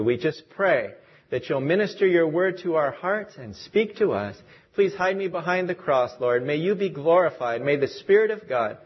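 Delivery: even-toned, earnest opening prayer. Real, not acted. Preacher opens the service in prayer, steady prayerful tone. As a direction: pray aloud for the congregation in a steady, level voice.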